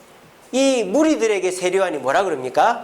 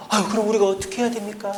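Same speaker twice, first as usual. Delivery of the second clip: groveling plea; faster than usual. Retold or imitated. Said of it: "절절 기고 있습니다".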